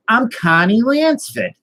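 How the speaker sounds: high, emphatic mock Boston accent; insistent Boston accent. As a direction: repeat your name slowly and insistently in broad Boston. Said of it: "why do you have a Boston accent".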